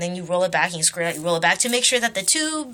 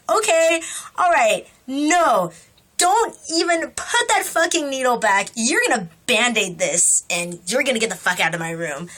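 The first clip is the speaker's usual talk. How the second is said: imagined telling off. Pretend. Telling off the nurse who pulled the needle, mock angry. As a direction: snap at her the way you wish you had. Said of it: "I didn't say that, but I really wanted to".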